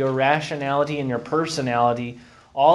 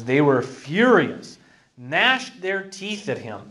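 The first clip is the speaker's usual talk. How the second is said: slow, deliberate scripture reading; scripture read aloud. Acted. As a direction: read out the accusation slowly and firmly.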